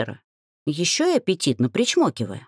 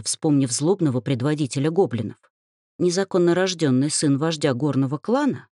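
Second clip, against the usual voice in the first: plain reading voice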